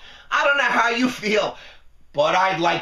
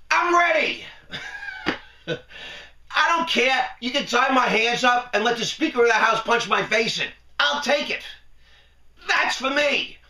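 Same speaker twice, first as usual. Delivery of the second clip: higher, hammed-up offer to take the beating; mock eager contrition; 4 semitones higher than usual. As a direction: play it like a sarcastic martyr. Mocking the congressman's fake contrition.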